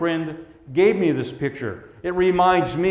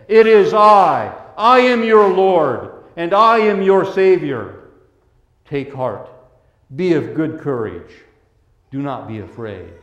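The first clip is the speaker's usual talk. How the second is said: Jesus speaking; 3 dB louder than usual. Acted. Preacher voices Jesus to disciples.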